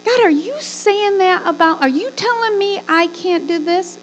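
high, incredulous question; questioning God. Acted.

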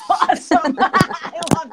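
giggly and excited through an echo; laughing. Real, not acted.

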